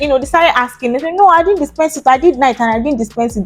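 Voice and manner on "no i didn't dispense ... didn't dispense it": high-pitched protest, easing down; acted denial. Colleagues deny dispensing the missing drug, high-pitched protest. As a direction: imitate a colleague protesting innocence.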